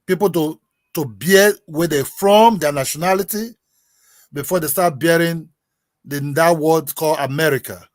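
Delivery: slow, deliberate repetition with long pauses; measured, word-by-word slow delivery; very slow speech. Real, not acted. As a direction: spell it out slowly for a listener. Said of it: "let me speak very slowly now".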